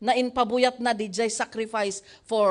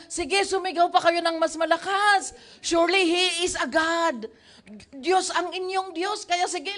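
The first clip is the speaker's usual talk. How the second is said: mocking, higher-pitched goading; taunting; 4 semitones higher than usual. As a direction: Elijah taunting the prophets of Baal, mocking. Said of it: "Elijah began to taunt them".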